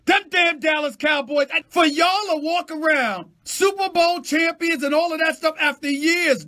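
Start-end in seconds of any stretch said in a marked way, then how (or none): 0.0-4.2 loud, higher pitched outburst; ranting at the Cowboys; exasperated shout. Real, not acted. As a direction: bellow their name in disgust. Shouted rant.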